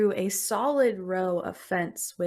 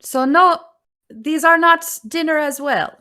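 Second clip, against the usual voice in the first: put-on booming old witch; 8 semitones higher, 12 dB louder than usual. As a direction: boom it out as the giant crone. GM voices Baba Yaga.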